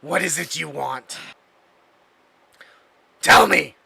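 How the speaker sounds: sneering with disgust. Acted. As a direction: spit out the word in contempt. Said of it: "you can hear the disgust in his voice".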